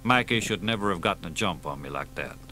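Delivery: quiet resigned confession to his partner; weary sadness. Acted. Aging Dee, sad confession.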